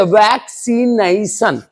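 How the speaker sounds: वैक्सीनेशन read as वैक-सी-नई-सन, each part distinct; syllable-by-syllable reading. Shown as a demonstration. Teacher joining the syllables up for students, measured sounding-out. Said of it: "अब इसको पढ़ेंगे".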